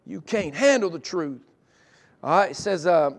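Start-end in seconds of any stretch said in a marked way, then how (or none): 0.0-1.4 lightly voiced movie quote; movie line. Preacher quoting a courtroom movie to the congregation, mild impression. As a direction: punch it a little, like a famous film line. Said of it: "makes us think of a movie".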